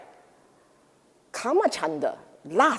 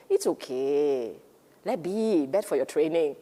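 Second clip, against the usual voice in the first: calm wise voice; 6 semitones lower than usual. Pretend. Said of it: "the wholesome, reasonable, sensible, wiser part of you say".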